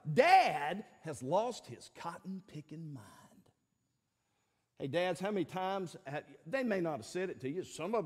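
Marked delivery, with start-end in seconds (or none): 0.1-3.1 slow, drawn-out mock disbelief; acted exasperation, word by word; exasperated son. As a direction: spell out slowly that Dad is hopeless. Sons' verdict on Dad acted out.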